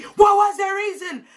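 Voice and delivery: high, loud drawn-out yell; a rapper. Retold or imitated. The speaker quotes a star while fighting auntie, outraged yell. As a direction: mimic a celebrity's outraged holler. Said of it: "you know a rapper".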